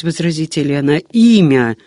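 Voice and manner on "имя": sharp demand. A narrator's reading. Monk's third demand.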